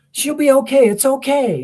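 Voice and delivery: a hint of a panicked dad soothing; dad reassuring. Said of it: "and he goes".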